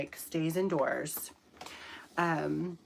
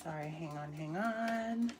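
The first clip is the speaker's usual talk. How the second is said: whispered aside; 5 dB quieter than usual. Real, not acted. Aside during a tech problem.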